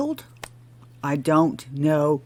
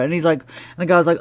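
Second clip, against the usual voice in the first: normal talking voice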